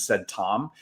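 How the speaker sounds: usual speaking voice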